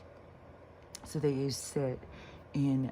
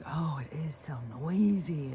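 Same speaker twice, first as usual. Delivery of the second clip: breathy whisper of an overwhelmed mind; 2 semitones higher than usual. Retold or imitated. Voicing the overwhelmed mind, whispered. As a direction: let it slip out as a whisper.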